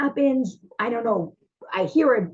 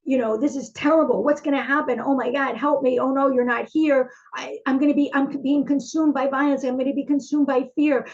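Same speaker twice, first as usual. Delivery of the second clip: mildly raised, frightened pleading; scared plea; 3 semitones higher than usual. Acted. Psalmist alone and terrified, pleading for help. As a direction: let the fear creep into the voice. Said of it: "And then it's like".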